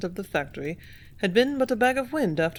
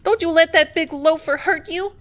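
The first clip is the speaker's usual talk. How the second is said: put-on high, loud girlish shout of encouragement; excited girl shouting; 9 semitones higher, 8 dB louder than usual. Mabel shouting to Benway from the crowd, high excited yell. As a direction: yell your fear for him from the sidelines. Mabel cheering during the fight.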